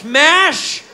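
loud, mock-aggressive single word. Comedian mocks the aggressive name of a British dish, aggressive. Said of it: "Why so aggressive?".

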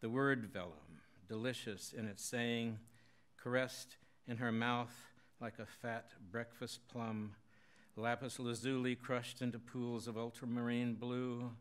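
measured, lifted poetry-reading voice; poem reading. Acted. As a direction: read the poem aloud in even, deliberate phrases. Reads own poem aloud.

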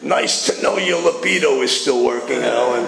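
lightly imitated gruff Irish elder; old sponsor's Irish growl, lightly done. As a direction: put on a hint of a gruff Irish accent. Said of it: "deep, gruffy Irish voice".

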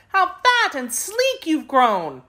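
put-on high, slow, delighted girl's voice; glad cry. A narrator's reading. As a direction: draw it out gladly, pitched high. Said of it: "uttering at the same time a glad cry".

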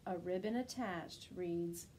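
put-on lively read-aloud for children; storybook narration. A narrator's reading. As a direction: read the rhymes like a bedtime book. Rhyming picture book read aloud.

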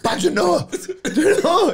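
high pitched shout of his name; high calling out. Retold or imitated. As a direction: call him off, rising to a squeal. Calling out to celebrating fighter.

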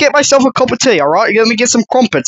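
put-on playful British tea-time accent. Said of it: "Are you fucking British?".

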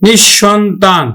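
slow নিঃসন্তান as nish-shon-tan; doubled palatal sh. Shown as a demonstration. Teacher asking how we pronounce it, slow doubled sh in নিঃসন্তান. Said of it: "আমরা কিভাবে উচ্চারণ করি".

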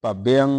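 ਭਵਯੰ spelled out in sound for the student; pronunciation demo. Shown as a demonstration. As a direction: sound out ਭਵਯੰ carefully as a model. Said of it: "ਉਚਾਰਨ ਕਰਨਾ".

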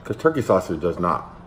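speaking between bites; talking while chewing. Real, not acted. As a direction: mouth partly full of food. Seen 0: Bites sausage at -2s, then talks with lips barely parted.

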